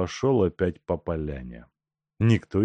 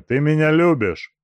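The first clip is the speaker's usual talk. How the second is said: mocking laugh; 9 semitones higher, 8 dB louder than usual. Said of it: "спросил, смеясь".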